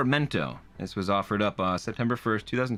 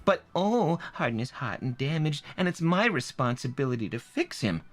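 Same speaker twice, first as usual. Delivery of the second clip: reading as the reviewer. Retold or imitated. Narrator reads a harsh review aloud in a mild mock reviewer voice. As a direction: read her words as a bored, scornful reader. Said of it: "What does Stephanie Baker sound like?".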